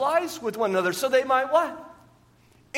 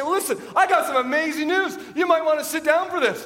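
excited announcement; 7 semitones higher than usual. Pretend. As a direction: hype up the big news to your spouse. Telling spouse amazing news.

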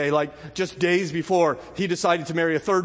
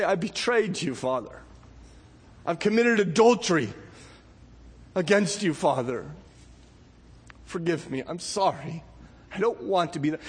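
contrite prayer. Retold or imitated. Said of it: "It is when you say".

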